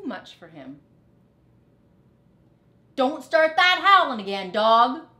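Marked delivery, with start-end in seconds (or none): 2.9-5.1 loud, high yell at Dog; high angry rat cry. Acted. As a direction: shout him down, fed up. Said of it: "cried Rat".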